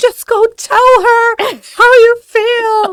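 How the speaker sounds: very high, very loud, slow, dragged, drawn-out yell. Retelling yelling at the screen during chick flicks: imitating yelling at a screen. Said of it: "yelling at the screen".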